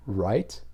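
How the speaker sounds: right? with a rising upward inflection; right? as a checking question, rising. Shown as a demonstration. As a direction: lift the pitch up on right?. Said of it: "I'm using that upward inflection".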